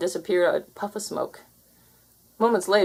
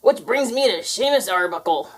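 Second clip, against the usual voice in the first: pirate voice; 3 semitones higher than usual. Acted. Pirate ghost.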